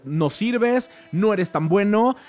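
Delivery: harsh critics. Retold or imitated. The industry telling Buster he's no good, mock harsh. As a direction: mimic the crushing verdict.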